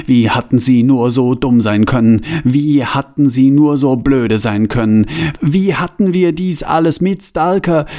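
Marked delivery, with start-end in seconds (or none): 5.4-7.9 high-pitched, lightly whinnied lament; whinnying pack donkey. A narrator's reading. Franz the pack donkey laments being tricked, lightly whinnying. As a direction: whine it high like a donkey, understated. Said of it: "Wieherte Franz".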